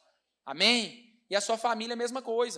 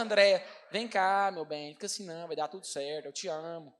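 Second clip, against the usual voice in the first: tender consoling; 4 semitones lower than usual. Retold or imitated. Imitating his wife comforting him, hushed and tender. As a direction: coax him gently like a wife soothing.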